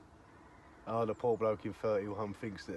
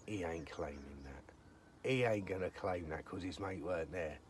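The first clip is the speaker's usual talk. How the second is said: private thought; 6 semitones lower, 6 dB quieter than usual. Retold or imitated. Retelling his muttered private thought.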